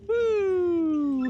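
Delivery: long, loud, high "woo"; high whoop. Real, not acted. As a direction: let out a sustained high whoop. Excited whoop in game.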